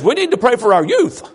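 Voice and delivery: lightly imitated regional accent of a church member; Brian Ford. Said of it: "get it in Brian's vernacular".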